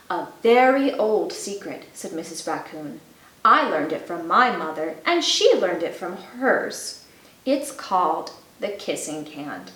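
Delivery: gentle storybook narration; reading to children. A narrator's reading. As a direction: read it like a bedtime story. Reads a picture book to children.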